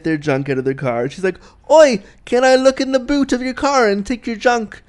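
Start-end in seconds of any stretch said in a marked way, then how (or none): 1.7-4.8 higher-pitched, hammed-up British accent; bad British accent. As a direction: put on a deliberately dodgy British accent, pitched up. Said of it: "That was my really bad British accent".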